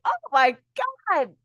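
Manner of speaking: exasperated mock groan of words; annoyed. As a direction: voice a spirit losing patience. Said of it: "I'm making it sound like Spirit's annoyed".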